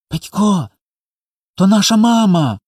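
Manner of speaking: put-on delighted child's high-pitched cry; overjoyed. A narrator's reading. Little boy spots his mother in the stars, overjoyed. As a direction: pipe up high with sudden joy. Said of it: "зрадів Коля".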